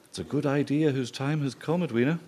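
words muffled by a mouthful; mouth full. Real, not acted. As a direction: say it while still chewing. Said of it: "Sorry, it's the butter".

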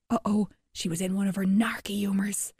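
soundless, soft whisper; hushed storyteller whisper; whispered aside. A narrator's reading. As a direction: whisper it like you'll be caught. Whispered story aside about trouble.

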